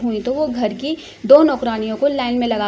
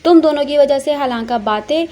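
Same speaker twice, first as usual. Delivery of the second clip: louder scolding of the maids; angry at the maids; 3 dB louder than usual. Acted. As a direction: snap at the servants to get out. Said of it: "अपना गुस्सा नौकरानियों पर निकालते हुए".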